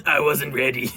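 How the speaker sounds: laughing while repeating it. Retold or imitated. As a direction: chuckle through the words. Laughing repeat of clip line.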